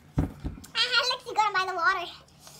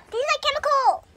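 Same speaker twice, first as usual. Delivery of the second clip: pained talk, tongue on fire; mouth burning from spicy food; 2 semitones higher than usual. Real, not acted. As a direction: speak through a burning tongue. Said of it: "My tongue burned".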